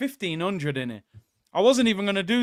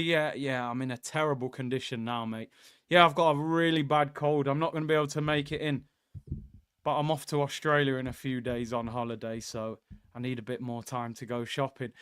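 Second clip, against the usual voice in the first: mock poorly voice, softer and lower; faking sick; 5 semitones lower, 5 dB quieter than usual. The speaker phoning Robbie to fake a cold, feebly. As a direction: put on a feeble sick voice to dodge work. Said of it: "He's milking it, people. He's got a cold".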